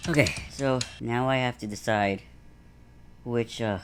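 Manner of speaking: winded from walking; out of breath. Real, not acted. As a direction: talk while catching your breath. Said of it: "I'm so out of breath".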